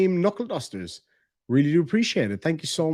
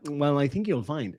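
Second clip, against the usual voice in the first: softer smug mimicry; mock smug; 2 semitones lower, 5 dB quieter than usual. Streamer imitating woman turning from tears to smugness, smug. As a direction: drop into smug correcting. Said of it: "back to just being smug".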